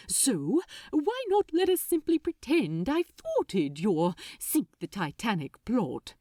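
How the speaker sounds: quick and excited. Acted. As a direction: hurry on with an eager plan. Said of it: "went on quickly".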